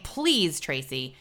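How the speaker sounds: mildly pleading quote of an annoyed viewer; mock-exasperated appeal; exasperated plea. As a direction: drop away on the name, imitating weary reproach. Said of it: "getting mad at me or saying".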